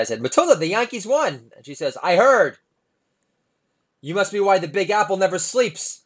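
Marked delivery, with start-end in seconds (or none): 0.2-1.5 higher, louder happy announcement; mildly excited morning announcement; excited dad. Retold or imitated. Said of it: "I was all excited". 2.0-6.0 put-on higher, louder deadpan child voice; lightly voiced sarcastic daughter; snarky kid.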